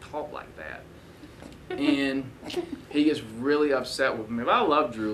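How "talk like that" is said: lightly voiced accent of a friend, softer; a friendly, quiet mock of Drew's accent; imitating Drew's accent. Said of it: "he talks like this".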